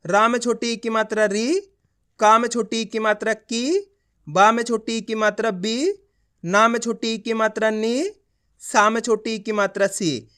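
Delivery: measured teacher's drill with री, की, बी, नी lifted and सी falling; spelling-out drill. Shown as a demonstration. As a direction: chant each letter plus vowel sign, ending on a lightly held री, की, बी, नी, सी. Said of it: "इतना ही खींच के उच्चारण करना है".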